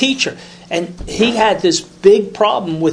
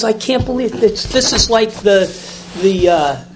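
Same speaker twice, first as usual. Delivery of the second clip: higher, louder, amazed outpouring; astonished priest; 4 semitones higher, 3 dB louder than usual. Retold or imitated. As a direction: gush it out as if stunned by a discovery. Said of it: "And he goes".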